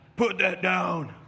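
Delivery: unkind, not-nice heavenly voice from above. Describing wanting chocolate at 2 a.m., speaker acts out a not-nice voice from heaven. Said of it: "it sounds like a voice from heaven, but not like the nice voice".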